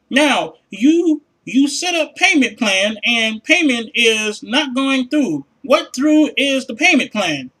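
slow, halting mock broken-English rep; imitating a call-center rep. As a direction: drag each word like a struggling phone agent. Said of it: "no English speaking motherfuckers".

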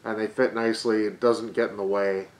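muffled behind cloth mask; speaking with mouth covered; through a face mask. Real, not acted. Seen 1: Black cloth mask covers mouth and nose throughout; removed after 22.6.

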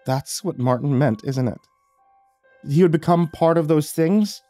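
voice cracking. Acted. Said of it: "her voice cracking".

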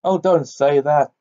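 babbling. Acted. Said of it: "babbled Uncle Andrew".

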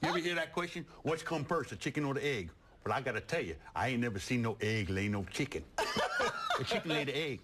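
hillbilly farmer voice, hammed up; Southern accent. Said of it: "Wilby Stuckinson ... he's from the South".

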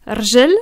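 rjel said quick, no vowel between r and j; short rjel. Shown as a demonstration. Teacher showing quick rjel for leg. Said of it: "tu dis très vite rjel".

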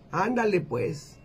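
slow, drawn-out agreement; a hint of an old man giving in; viejito. Old husband agreeing to his wife, lightly voiced slow old man. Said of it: "Le dice".

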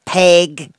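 a sudden loud, violent bark of a word; sudden violence. Acted. Duchess startling Alice with one word, violent. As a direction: hurl the word at her so she jumps. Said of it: "with such sudden violence".

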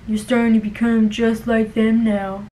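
lightly voiced, monotone reproach; imitating hurt coworker. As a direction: quote his sad accusation in a put-on voice.

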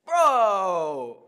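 loud, high drawn-out bro call; Dylan. Acted. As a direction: holler it high and let the pitch slide down. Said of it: "I do a good Dylan impression".

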